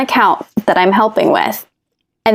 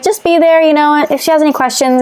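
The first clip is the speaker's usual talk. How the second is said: high quoted coworker; 7 semitones higher than usual. Retold or imitated. Coworker quoted urging her to bond.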